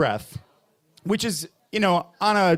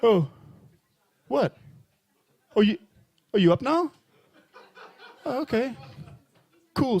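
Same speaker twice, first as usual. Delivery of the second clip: lightly voiced sassy cat, a bit higher; saucy cat; 4 semitones higher than usual. Saucy cat talking to its startled owner. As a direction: play it coy and cheeky. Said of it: "saucy cat way".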